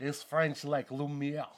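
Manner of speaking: slow, hammy French candlestick voice; lightly voiced Lumiere from Beauty and the Beast. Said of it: "That's the Beauty and the Beast".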